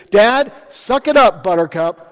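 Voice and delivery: lightly voiced daughter telling dad to toughen up; daughter's teasing. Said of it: "She goes".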